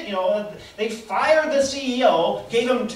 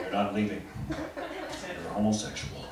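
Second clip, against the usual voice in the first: much lower, softer, slow tough-guy voice; Chuck Norris impression; 12 semitones lower, 8 dB quieter than usual. Chuck Norris guarding the island gates, low and slow. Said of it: "Chuck Norris at the gates".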